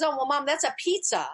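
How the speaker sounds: a hint of a three-year-old explaining her pizza; mother retelling her daughter's innocent answer, lightly childlike; little girl explaining. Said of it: "She says".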